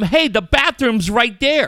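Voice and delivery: high, drawn-out mock yell; imitated kid's yell. Dad voicing his son yelling at a mom in the park, mock yell. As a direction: act out a kid calling someone out. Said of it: "I yelled at his mom".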